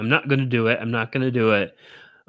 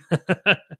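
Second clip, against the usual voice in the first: high burst of real laughter; 7 semitones higher than usual. Real, not acted. Laughing for Gene who loves the laugh, real giggle. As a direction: let a genuine laugh out. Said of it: "that was a real laugh".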